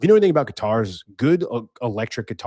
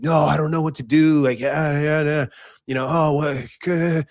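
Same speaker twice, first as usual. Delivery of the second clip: higher mock-helpless girlfriend; mocking whine; 3 semitones higher than usual. Girlfriend answering her angry boyfriend about the chewed guitar, mocking whine. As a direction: imitate her helpless blubbering, pitched up. Mocks girlfriend's flustered replies.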